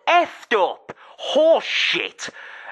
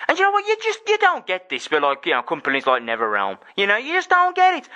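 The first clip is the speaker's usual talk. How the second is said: heated rant. Real, not acted. Ranting, comparing with NetherRealm.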